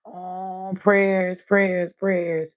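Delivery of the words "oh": a breathy whispered oh; unvoiced soft oh. Real, not acted. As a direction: hush it almost silent. Whispered before prayers.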